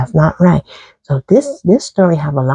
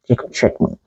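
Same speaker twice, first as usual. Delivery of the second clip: soft unvoiced whisper; whispered dismay; 6 dB quieter, faster than usual. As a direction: breathe it out in defeat. Isaac's dismayed aside.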